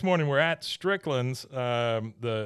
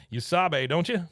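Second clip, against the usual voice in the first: Buck; 5 semitones higher than usual. Retold or imitated. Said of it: "He goes".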